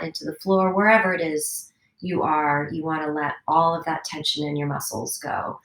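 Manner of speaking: calm, even guiding voice; guided meditation. Acted. Teacher guiding her class through a body scan, calm meditation voice. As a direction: lead the children gently into relaxing.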